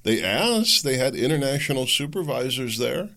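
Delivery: high-pitched incredulous mimicry; high, taunting question; mock outrage. Mocks critics reacting to election claims.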